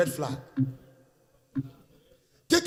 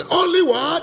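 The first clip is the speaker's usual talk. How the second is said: call to congregation; 8 semitones higher, 4 dB louder than usual. Shown as a demonstration. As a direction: shout it for the church to repeat. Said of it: "shout it one more".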